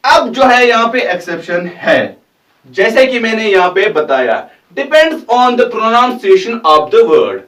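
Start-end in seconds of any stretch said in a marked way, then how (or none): 4.8-7.4 slow teaching read. Shown as a demonstration. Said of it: "teaching rule slowly".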